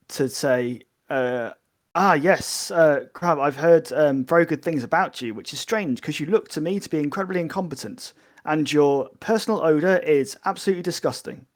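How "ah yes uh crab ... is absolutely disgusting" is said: mock-brusque insults, half-played; blunt Tellarite manner. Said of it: "trying in his best kind of, you know, Tellarite manner".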